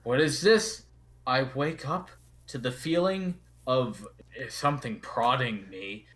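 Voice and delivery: loud, indignant ancient rock creature; grumpy stone guardian. Acted. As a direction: bellow like a roused cave spirit. GM voices the stone face.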